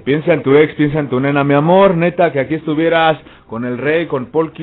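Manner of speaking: swaggering catchphrase. Acted. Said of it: "aviéntate la frase".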